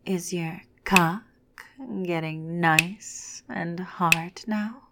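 sultry. Acted. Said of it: "in a sultry voice asks".

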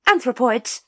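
high, firm lady's correction; lady correcting the ape's name, high and firm. A narrator's reading. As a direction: correct them briskly. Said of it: "corrected Lady Ramkin".

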